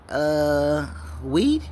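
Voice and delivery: rising, disbelieving question; baffled, asking if it's only weed; incredulous. Retold or imitated. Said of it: "and I'm like".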